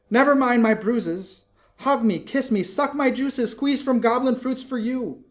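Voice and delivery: high and loud, tumbling eager words; breathless excited plea. Acted. Lizzie begging Laura to kiss her, eager loud high voice. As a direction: urge her sister to take the cure, loud and high. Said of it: "She cried".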